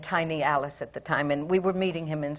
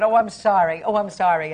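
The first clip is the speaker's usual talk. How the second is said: laughing apology. Retold or imitated. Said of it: "I started to laugh".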